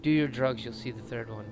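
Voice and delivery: lazy Cheech and Chong stoner. Pretend. Stoner banter about the geyser.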